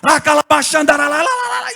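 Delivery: high, loud tongues with a lilt; praying in tongues. Retold or imitated. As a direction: let the syllables roll out in prayer. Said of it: "e chorando".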